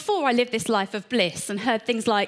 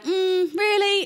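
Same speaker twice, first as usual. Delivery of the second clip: surprised doubt; 8 semitones higher, slower than usual. Retold or imitated. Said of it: "Moses is like".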